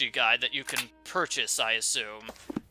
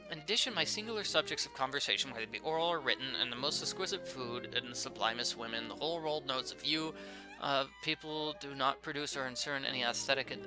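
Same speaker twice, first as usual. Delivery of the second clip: letter read aloud; 7 dB quieter than usual. Real, not acted. Player reads a letter to Holmes aloud, soft reading voice.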